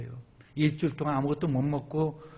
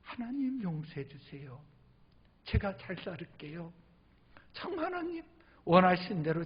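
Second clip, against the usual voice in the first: tearful prayer; 4 semitones higher, 5 dB quieter than usual. Retold or imitated. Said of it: "거실에 와서 막 울었어요".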